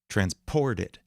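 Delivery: transported with the middle syllable stressed; transported, weight on its second syllable. Shown as a demonstration. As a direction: lean on the POR in transported. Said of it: "the stress on the middle syllable".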